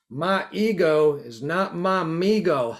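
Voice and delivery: slow, badly faked Texas accent; clumsy mock Texas accent; butchered Texas accent. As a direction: ham up a Texan reading of a saying, slowly. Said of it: "I just butchered the accent".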